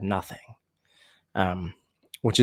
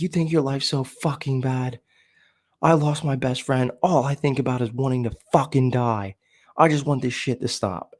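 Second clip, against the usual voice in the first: heated outburst, higher-pitched but short of a scream; retold angry screaming; 4 semitones higher than usual. Snapping at his buddy at a party, retold angry outburst. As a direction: re-enact snapping at someone, voice raised in pitch. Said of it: "I just went screaming at him".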